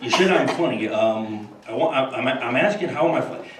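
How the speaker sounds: lightly voiced Carson doing the funny how bit; Johnny Carson as Joe Pesci. Carson confronts Bush, mild mock menace. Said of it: "George Bush and Johnny Carson".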